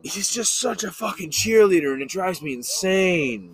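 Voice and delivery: croaky frog voice, slowing down. Acted. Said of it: "Frog voice like this".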